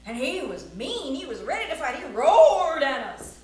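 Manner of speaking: punchy tall-tale telling; big opening, drawn-out final roar word; excited story narration. A narrator's reading. Storyteller describes the biggest mountain lion ever, theatrical narration.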